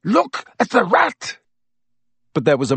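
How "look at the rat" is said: desperate plea. A narrator's reading. Black desperately pleading with Snape.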